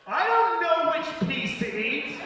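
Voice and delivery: put-on high, loud, slow child whine; whiny kid. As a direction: whine about nothing like a toddler. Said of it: "So she goes".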